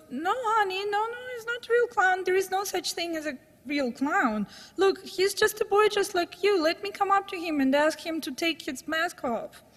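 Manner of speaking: high, soothing mother's voice, pitch lifted; calm a scared little boy, voice way up; reassuring mom. Retold or imitated. Mother soothing frightened son.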